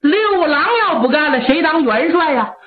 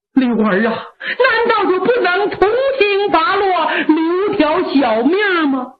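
put-on higher, imploring old lady; old mother begging her son, imploring; 4 semitones higher than usual. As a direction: plead for his little life. Mother begs for mercy.

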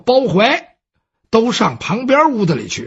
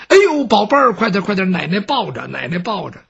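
doting grandma. Acted. 奶奶搂孩子疼爱. (疼爱地哄孩子，越说越轻)

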